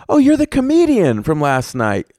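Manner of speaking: high-pitched imitation of excited women; mock a fan recognising someone; excited female fan. Imitating women who recognise him.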